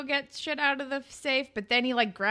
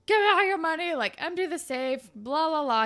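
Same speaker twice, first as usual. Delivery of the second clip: higher, louder mock hold-up voice; mock robber; 6 semitones higher, 5 dB louder than usual. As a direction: retell it as a pushy robber's demand. Retold robber's demand.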